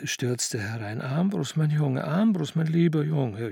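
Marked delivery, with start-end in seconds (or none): 1.0-3.5 jubilant. Acted. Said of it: "jubelte sie".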